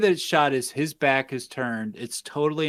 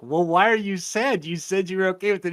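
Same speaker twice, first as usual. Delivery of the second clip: puzzled questioning; 5 semitones higher than usual. Retold or imitated. Comic puzzled question in retold scene.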